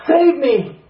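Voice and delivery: sudden loud, high cry for help; a shouted plea; urgent cry. Retold or imitated. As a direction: cry out desperately. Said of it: "What did you pray?".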